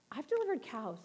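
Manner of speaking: low, soft, matter-of-fact husband; deadpan husband line, said quietly; lightly voiced calm husband. Husband calmly reassuring his pregnant wife, low and soft. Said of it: "He says".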